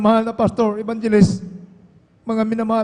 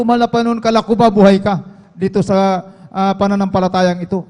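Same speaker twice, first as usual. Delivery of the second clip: crying out to God; 4 dB louder than usual. Retold or imitated. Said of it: "sumigaw po ako sa mahal na Panginoon".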